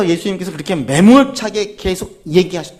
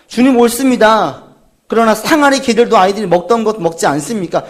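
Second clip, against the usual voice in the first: fervent confession; 2 semitones higher, 4 dB louder than usual. Acted. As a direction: cry it out as a humble believer. Woman's confession quoted in sermon. (간절하고 크게 고백하듯)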